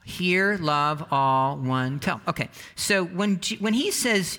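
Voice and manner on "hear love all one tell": each word set apart with a pause; Hear, love, all, one, tell spoken one by one as a chant; slow listed recitation. Shown as a demonstration. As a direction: say them slowly, one by one, for the room to repeat. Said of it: "Can you say it with me?".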